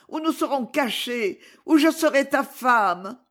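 a hint of a lover begging to elope; ardent lover. Clémence's voice in the story. (amante ardente, voix plus aiguë)

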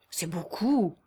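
hushed, serious reply; restrained seriousness. A narrator's reading. Son answering his father's sum, restrained seriousness. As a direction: hold impatience in under a sober, subdued tone. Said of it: "en s'efforçant de dissimuler son impatience sous un air sérieux".

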